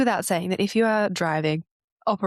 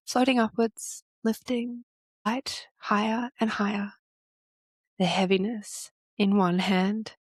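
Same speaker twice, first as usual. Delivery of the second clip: measured hypnotic guiding, long pauses between phrases; guided visualization. Real, not acted. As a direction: guide them gently through imagining each sensation. Leads an imagery exercise.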